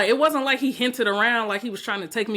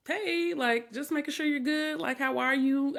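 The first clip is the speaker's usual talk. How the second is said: higher, softer, careful voice; gently checking in, pitched up; light, friendly check-in; 5 semitones higher, 4 dB quieter than usual. Retold or imitated. Woman texting a quiet new date to check in, lightly friendly.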